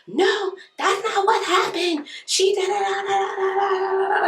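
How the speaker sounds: very high, drawn-out whiny imitation; mock pleading. Imitating the woman pleading with the husband, mock desperate. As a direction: plead in a squeaky put-on voice, running into babble. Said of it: "pleading with him".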